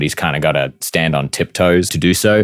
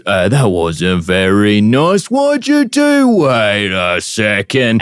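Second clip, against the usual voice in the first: confused orc; 3 semitones higher, slower than usual. Acted. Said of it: "the orc just turns".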